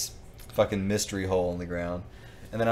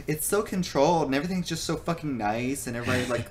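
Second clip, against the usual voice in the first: mocking naive view; 5 semitones higher than usual. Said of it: "people think".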